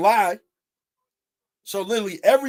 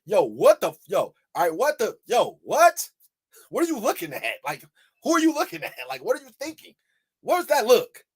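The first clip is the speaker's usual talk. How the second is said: rising indignant, pitched higher; imagined confrontation; 3 semitones higher than usual. Retold or imitated. Imagined telling off the lady in line, indignant. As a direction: go off on her in your head. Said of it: "it was like".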